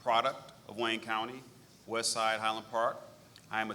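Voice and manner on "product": military voice. Real, not acted. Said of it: "I was just gonna use my military voice".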